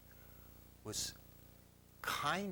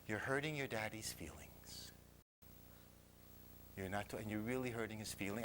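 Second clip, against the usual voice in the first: lower, measured retold maternal reproach; mother's gentle reproach; 4 semitones lower, 4 dB quieter than usual. Mother to son about daddy's feelings, low reproach.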